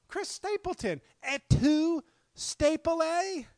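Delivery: high, loud, slow theatrical cry; hammed-up betrayal. Mock-tragic to the singer, high and loud. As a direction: play the wounded Caesar, overdone.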